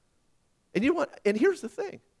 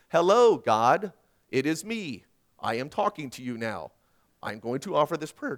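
stilted, word-by-word address to God; mechanical prayer; 3 semitones lower than usual. Acted. Preacher mocking how we pray to God, mechanical. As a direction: pray like someone reading a script. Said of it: "we do it not mechanically, but lovingly".

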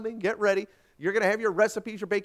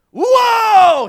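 huge high drawn-out yell; full-voice, high-pitched holler; panicked yell; 18 dB louder than usual. A narrator's reading. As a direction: yell to halt a runaway horse. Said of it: "he yelled".

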